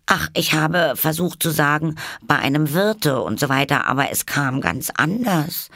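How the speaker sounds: put-on high, downcast girl's voice; dejected girl. A narrator's reading. Alice dejectedly tells the caterpillar. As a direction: sound let down. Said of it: "in niedergeschlagenem Ton".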